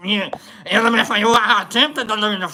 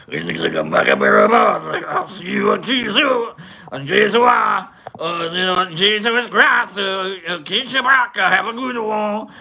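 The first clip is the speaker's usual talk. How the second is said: Cookie Monster French. Retold or imitated. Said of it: "Cookie Monster trying to speak French".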